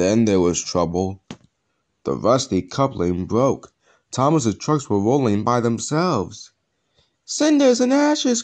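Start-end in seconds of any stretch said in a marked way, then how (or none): 7.3-8.4 very high, startled cry. Thomas as his trucks roll away by themselves, crying out. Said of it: "cried Thomas".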